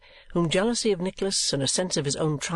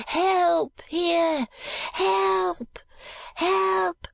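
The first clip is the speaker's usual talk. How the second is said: high-pitched cry for help; calling for help; much slower than usual. A narrator's reading. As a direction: cry out the window in high alarm. Gride cries out the window.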